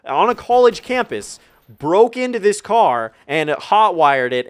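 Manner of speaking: slow, disbelieving retort; a little condescending. Retold or imitated. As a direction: drag out the accusation to show how absurd it is. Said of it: "a little bit condescending 'cause I was like".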